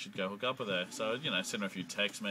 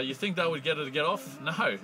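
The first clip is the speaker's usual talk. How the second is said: building excitement; 6 semitones higher than usual. Retold or imitated. Story builds to a climax.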